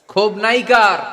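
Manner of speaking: high, loud challenge to the crowd; loud rhetorical call. Real, not acted. Preacher asking who has no resentment, calling out. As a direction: ring the question out over everyone.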